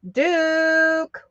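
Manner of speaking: high, bright cheer of a name; excited call. Real, not acted. Host cheering a buyer on claiming Duke, excited call.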